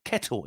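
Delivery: "Kettle." with a clear "e" and a sharp sounded T; careful British "Kettle."; crisp T in kettle. Shown as a demonstration. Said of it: "I sounded the T".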